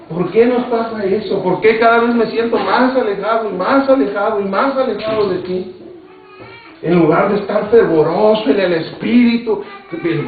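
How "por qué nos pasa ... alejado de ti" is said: súplica retomada, en tono más agudo; queja a Dios. Retold or imitated. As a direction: reclamo dolido al Señor, con insistencia creciente. Predicador revive su queja a Dios. (lamento suplicante)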